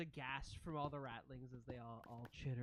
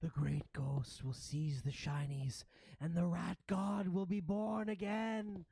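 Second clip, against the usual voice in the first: creature voice rising higher and louder; proclaiming ratling; 4 semitones higher, 4 dB louder than usual. Acted. Ratling prophesying the rat god's rebirth, building proclamation.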